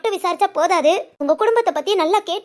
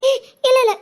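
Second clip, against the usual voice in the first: startled denial; 6 semitones higher, 4 dB louder than usual. Real, not acted. Mother quickly backtracks.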